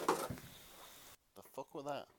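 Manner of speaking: slow whispered question; startled whisper. Real, not acted. Reader startled by a noise in the room. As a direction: hush it, spooked. Odd noise interrupts reading.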